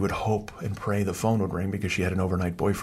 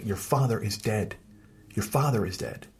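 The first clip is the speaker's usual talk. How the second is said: mock tearful yell with crying; 2 semitones higher than usual. Recalling a childhood moment, the speaker imitates mom crying and yelling. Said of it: "she's crying and yelling".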